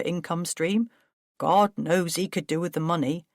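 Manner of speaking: lightly voiced pompous brother; Paul, defensive. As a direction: scoff then explain himself. Paul justifies his plans.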